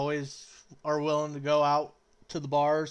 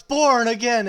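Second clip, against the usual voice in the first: raised, higher-pitched mock battle cry; shouted catchphrase; 6 semitones higher, 8 dB louder than usual. Drinking buddy bursts back into the bar, shouting. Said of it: "then he just shouts".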